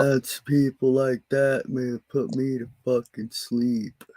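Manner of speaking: slow, flat-pitched mock bore voice; droning monotone. Friend mocks boring speakers in a slow droning voice. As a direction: lightly drag it out like a dull droner. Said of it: "You don't talk like this all the time".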